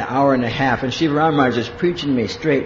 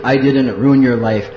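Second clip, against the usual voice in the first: lower, louder, slow imitation of a Hungarian guru; Shiva Ram Maharaj; 5 semitones lower, 6 dB louder than usual. Guru answering his frustrated disciple, deep Hungarian voice. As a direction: put on a deep, emphatic Hungarian voice. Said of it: "he's got this deep Hungarian voice".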